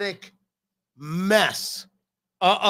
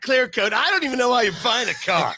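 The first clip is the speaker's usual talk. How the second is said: a little higher and quick mock car salesman; lightly voiced pitchman, a bit higher; Chris Collinsworth essence; 5 semitones higher than usual. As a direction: sell the clear coat like a cheery announcer. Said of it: "That's him".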